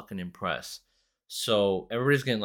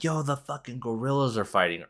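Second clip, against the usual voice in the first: mildly raised, excited shout-out; retold freak-out; 5 semitones higher than usual. Kids spreading word of the gorilla fight, mock excitement. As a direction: pass on the frantic news, lightly acted. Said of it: "everybody starts freaking out".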